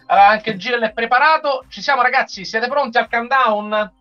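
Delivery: normal talking voice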